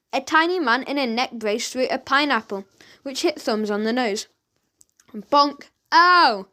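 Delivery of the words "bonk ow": a yelp of pain after the bonk; shouted ow. A narrator's reading. Henchman hit on the nose, yelping in pain. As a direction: cry out as the fruit hits. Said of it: "shouted the henchman".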